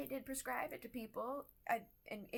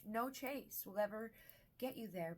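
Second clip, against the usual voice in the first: normal talking voice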